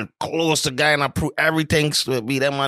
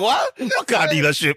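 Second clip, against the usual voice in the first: feigned innocence; 6 semitones higher than usual. Retold or imitated. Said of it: "I was like".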